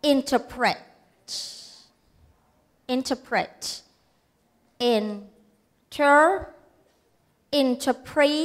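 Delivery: INTERPRETATION built up in separate chunks, spelling each; syllable by syllable. Shown as a demonstration. Teacher showing how to spell, syllable by syllable. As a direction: pause after each part of "interpretation", adding one syllable at a time. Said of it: "ลองไปทีละพยางค์".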